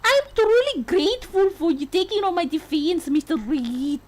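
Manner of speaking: attempted Scottish accent with rolled r's. Client thanks her defense lawyer, in an attempted Scottish accent. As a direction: put on a makeshift Scottish lilt. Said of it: "could do a Scottish accent".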